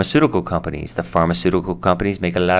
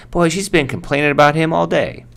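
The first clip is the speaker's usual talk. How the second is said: gossip; 10 semitones higher than usual. Acted. Example sentence, acted gossip.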